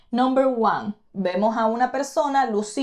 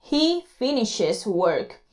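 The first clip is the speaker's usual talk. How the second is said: slow model sentence; much slower than usual. Shown as a demonstration. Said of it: "le vamos a añadir E S al verbo".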